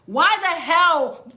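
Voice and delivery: high, slow, loud "why the hell"; exasperated outburst. Real, not acted. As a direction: throw up your hands in disbelief.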